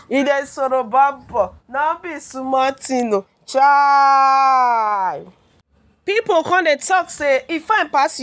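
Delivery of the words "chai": a loud, drawn-out "Chai" of amazement; loud long exclamation of wonder. Real, not acted. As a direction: belt out "Chai" like you can't believe it. Exclaiming over the man's looks.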